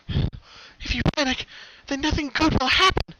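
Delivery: steady yourself with reason; pony reasons with herself, anxious; self-reassuring. A narrator's reading.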